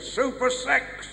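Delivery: mock-seductive announcement; stripogram announcement. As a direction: draw it out like a doorstep act. Stripogram announces herself at door.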